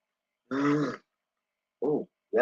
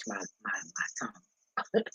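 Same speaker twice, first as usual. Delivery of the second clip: talking mid-sip; 6 semitones lower, 10 dB quieter, slower than usual. Real, not acted. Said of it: "Let me clean my wine sipping".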